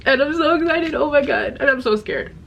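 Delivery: pitched high, gushing over the book; a giddy mix of thrill and nerves; excited gush. Real, not acted. Vlogger gushes to viewers about the new book, giddy and high.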